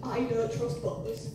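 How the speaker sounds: put-on slow, distrustful old-lady verdict. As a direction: imitate a suspicious old woman, slowly. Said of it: "She went".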